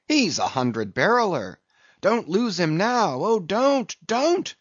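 high-pitched, pleading bursts of exclamation; frantic excited crying. A narrator's reading. Flask begging his lads to catch the whale, excited cry. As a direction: beg and cheer them on, hopping with excitement. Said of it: "cried Flask, dancing up and down".

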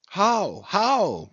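high, eager question from a crowd; eager cry. A narrator's reading. Young Spaniards crowding the narrator, asking eagerly and high. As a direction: press him for the story, curious. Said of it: "cried all the young Spaniards crowding".

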